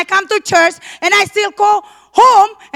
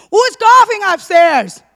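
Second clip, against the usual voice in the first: louder, slow call up the stairs; calling upstairs; 3 semitones higher, 5 dB louder than usual. Retold or imitated.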